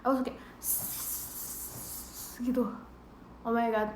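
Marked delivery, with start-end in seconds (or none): 0.6-2.4 a long, voiceless snake hiss; playful voiceless snake hiss. Pretend. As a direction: hiss like a possessed snake spirit. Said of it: "dimasukin siluman ular".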